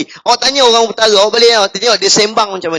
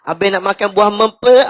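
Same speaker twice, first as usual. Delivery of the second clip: put-on Kelantan girl voice; 2 semitones lower than usual. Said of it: "Awak sebut".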